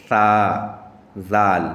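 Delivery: سا slow with tongue against the upper teeth, then زال; tongue-tip letters. Shown as a demonstration. Teacher demonstrates tongue placement for sa and zal. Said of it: "دانت کے کنارے پہ لگائیں".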